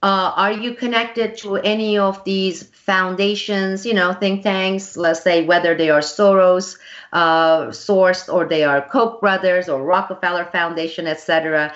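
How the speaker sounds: retelling her own blunt interview question. Retold or imitated. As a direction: put it to her straight and pointed. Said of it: "I'm always blunt".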